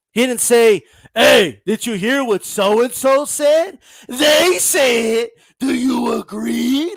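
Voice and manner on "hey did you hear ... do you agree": slow, drawn-out mock gossip; a light send-up of a nosy gossiper. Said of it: "Women go around, like, talking like that".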